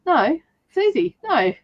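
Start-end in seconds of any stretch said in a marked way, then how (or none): 0.0-0.4 higher-pitched Australian "No"; Australian accent. Shown as a demonstration. Coaching an American friend on "No", nasal Australian accent. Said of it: "talk more through your nose". 1.2-1.5 nasal Australian "No"; Australian accent. Shown as a demonstration. Coaching an American friend on "No", nasal Australian accent. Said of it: "talk more through your nose".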